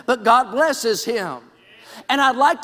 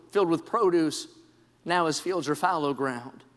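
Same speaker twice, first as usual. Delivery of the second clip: hushed somber telling; 6 semitones lower, 6 dB quieter than usual. Acted. Preacher painting Job's empty home for the church, hushed. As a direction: paint the desolate scene in a hush.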